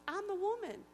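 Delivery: high, loud declaration; excited reveal. Retold or imitated. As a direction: announce it in amazement. Stranger reveals herself.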